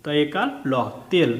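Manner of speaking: spelled parts joined into a single তেল; letters blended. Shown as a demonstration. Teacher shows pupils how ল is pulled onto তে, blended তেল. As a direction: spell it out, then run ল into তে as one তেল. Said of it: "এই তয়ের সঙ্গে টেনে পড়তে হবে".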